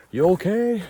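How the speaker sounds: high, loud mock call; imitated yell down. Guy behind calling down the switchbacks, imitated high yell. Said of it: "He yells down".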